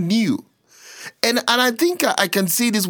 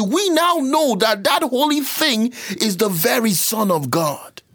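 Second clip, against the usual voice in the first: high-pitched, insistent pulpit delivery; worked-up sermon explanation; fervent preaching; 7 semitones higher than usual. Real, not acted.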